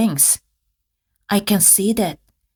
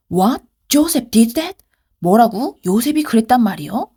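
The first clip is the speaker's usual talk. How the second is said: shocked; much faster than usual. Acted. Husband hears his wife's accusation, mildly shocked. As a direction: gasp it out like a stunned husband.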